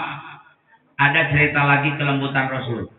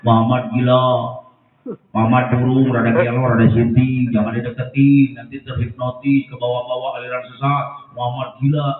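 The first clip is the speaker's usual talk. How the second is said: shouting blind man; 3 semitones lower than usual. Acted. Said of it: "sedang teriak-teriak".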